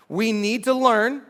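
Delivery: "learn," drawn out slowly for emphasis; slow down and lean on "learn,"; stress on LEARN. Shown as a demonstration. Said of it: "emphasis on learn".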